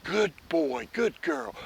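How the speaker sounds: warm high praise for the dog. Shown as a demonstration. Trainer praising the dog for four paws down, warm high praise. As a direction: reward the dog with happy praise. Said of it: "four on the floor".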